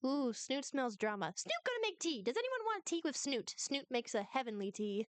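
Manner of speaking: lightly voiced little god, eager for drama; Snoot. Game master voices Snoot.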